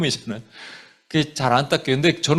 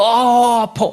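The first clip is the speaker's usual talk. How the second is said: mock cry of pain; 6 semitones higher, 3 dB louder, much slower than usual. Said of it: "막 이렇게 해요?".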